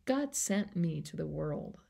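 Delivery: a touch of tender reassurance, softened; calmly voiced Jesus soothing a confused Pharisee; gentle Jesus voice. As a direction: speak to Nicodemus like a kind friend. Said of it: "God says".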